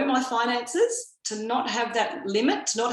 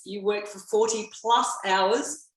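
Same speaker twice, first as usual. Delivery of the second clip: slower, leaning on the word plus; stress on plus; slower than usual. Real, not acted. Speaker recalling the old work motto, stressing "plus". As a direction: put deliberate emphasis on "plus". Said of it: "emphasis on the plus".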